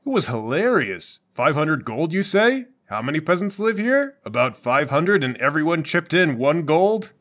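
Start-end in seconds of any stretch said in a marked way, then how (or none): 1.3-7.1 lightly acted deal-maker, questions lilting upward; mock haggling. Adventurer bargaining with peasants over gold, mock haggling. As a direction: play the hired-out dungeon bargain.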